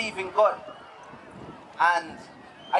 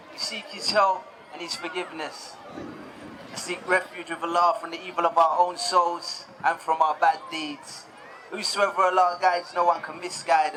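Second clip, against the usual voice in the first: measured, slightly lower recitation of the opening praise; formal sermon opening; 3 semitones lower than usual. Acted. Preacher opening his talk to the audience, in a solemn measured recitation. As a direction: open solemnly with the customary praise and testimony.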